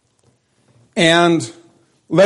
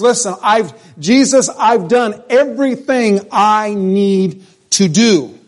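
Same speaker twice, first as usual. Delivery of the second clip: ruler's protest; 4 semitones higher, slower than usual. Retold or imitated. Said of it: "He says".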